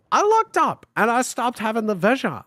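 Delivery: usual speaking voice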